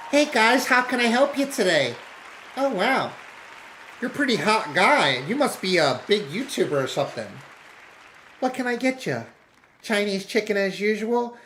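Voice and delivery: playful server gushing over a regular; flirty waitress. Retold or imitated. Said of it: "she's like".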